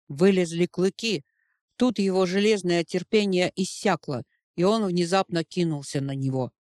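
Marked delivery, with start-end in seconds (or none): none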